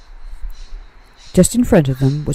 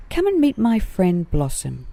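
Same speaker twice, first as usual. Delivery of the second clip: excited; 4 semitones higher than usual. Acted. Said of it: "he said excitedly".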